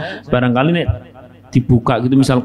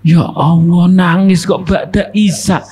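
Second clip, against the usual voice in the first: exasperated parent; 5 semitones higher than usual. Retold or imitated. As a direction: sigh over the crying child, half joking. Parent voiced about night crying. (keluhan orang tua, setengah bercanda)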